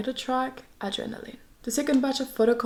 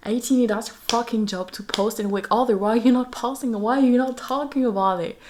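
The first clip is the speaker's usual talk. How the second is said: loud, raised-pitch playful telling-off; mock scolding; 3 semitones higher, 5 dB louder than usual. Fan telling fellow fans to post, mock scolding. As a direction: badger them with loud, indignant questions.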